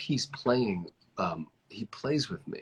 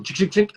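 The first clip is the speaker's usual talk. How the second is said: imitated clinking; 10 semitones higher, 8 dB louder, faster than usual. Imitating door panel clicking in.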